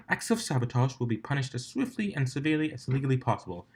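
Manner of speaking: a touch of a stern, clipped official; lightly voiced strict Octavia; strict organiser. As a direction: lay down the rules to the contestants. Octavia gives race rules.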